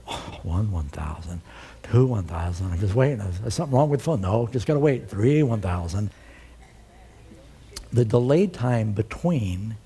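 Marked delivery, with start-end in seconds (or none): 0.1-6.1 low, muttered counting; impatient waiting on the phone; counting seconds. Retold or imitated. Pastor counting the phone delay, low mock mutter. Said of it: "I'm going".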